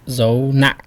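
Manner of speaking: nặng cut short; dot tone. Shown as a demonstration. Teacher naming the Vietnamese tones, nặng stopped short. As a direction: say dấu nặng with a short stop on nặng. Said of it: "the dot".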